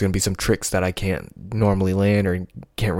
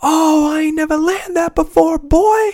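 pure joyful yell, very high; 6 dB louder than usual. Retelling landing a hard skateboard trick up the driveway: retelling own happy yell. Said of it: "I just remember yelling".

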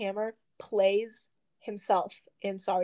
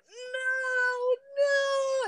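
mock very high, frantic, stretched-out scream. A speaker recalls reacting to bad events in a book, retelling screaming at the book. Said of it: "and just like screaming at the book".

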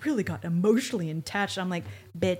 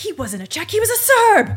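shrill, very high, booming, loud, drawn-out holler; 13 semitones higher, 10 dB louder than usual. Retelling what Olivia yells at the wife: imitating Olivia yelling. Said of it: "'Cause she yells".

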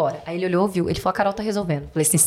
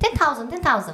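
put-on Chinese accent, higher pitch; 7 semitones higher than usual. Retelling a bank customer's words at the counter: imitating a chinese customer's accent. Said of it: "eu vou ter que imitar o sotaque dele".

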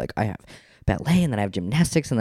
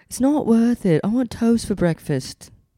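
high-pitched put-on northern British accent; 13 semitones higher than usual. Others ask the speaker to do the accent, and he tries a northern British accent. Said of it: "do the accent".

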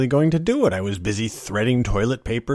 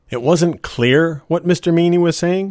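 ordinary talk, nothing marked

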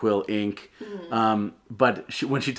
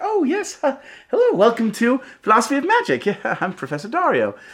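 very high, loud, bright and cheery; 13 semitones higher, 5 dB louder than usual. Professor Dario welcoming the class to Philosophy of Magic, cheery upbeat Professor Dario voice. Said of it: "She is very cheery, upbeat".

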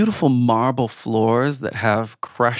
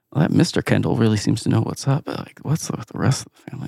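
mock disapproving crowd murmuring. Describing an audience's reaction to a performance, imitating disapproving murmuring. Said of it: "you hear a bit of a murmuring".

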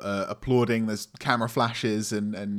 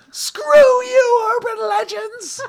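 put-on screaming creature voice, higher and louder; 11 dB louder than usual. Voicing the Grinch screaming from a car driving away: Grinch screaming. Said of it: "you just hear him screaming".

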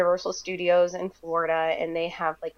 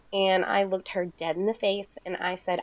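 ordinary talk

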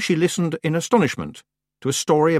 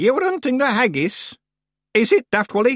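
suddenly sharp, cutting, high-pitched delivery; 7 semitones higher than usual. Cutting into a tale to question a man, her voice suddenly sharp. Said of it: "her voice suddenly sharp".

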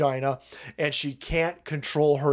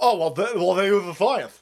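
mocking, derisive, dim-witted dumb-guy voice; 4 semitones higher than usual. Mocking people who repeat that experts use science: mocking imitation of a dumb lefty. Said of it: "Only idiots talk like this".

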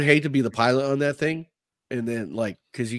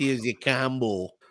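mock Midwestern accent; 4 dB quieter than usual. Imitating how the other speaker said "combo": imitating a midwest accent. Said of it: "you sound like you're saying it right now from the Midwest".

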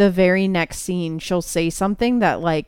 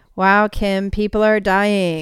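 dead-level, even, totally flat monotone deadpan. Comparing a movie character's delivery by imitating: flat Kourtney Kardashian impression. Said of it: "that very, like, tone, like, flat".

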